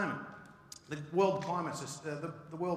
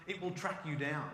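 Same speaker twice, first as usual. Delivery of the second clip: usual speaking voice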